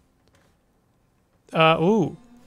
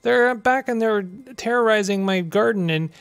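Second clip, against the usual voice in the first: gardener voice; 5 semitones higher than usual. Acted. Gardener character voiced in game.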